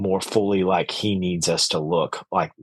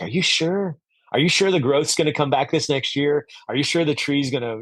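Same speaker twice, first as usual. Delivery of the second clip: worried, higher-pitched questions; mildly anxious, disbelieving query; doubtful questioning; 5 semitones higher than usual. Retold or imitated. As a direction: retell it as an unsure pupil pleading for reassurance. Retold doubting questions to pruning teacher.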